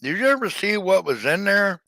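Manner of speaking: breathy, hiccupy whisper; trying to talk past the hiccups. Real, not acted. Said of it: "I got the hiccups".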